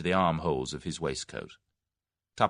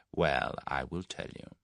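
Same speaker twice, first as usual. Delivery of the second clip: whispered; 4 semitones lower, 5 dB quieter than usual. Acted. Whittington confides terms.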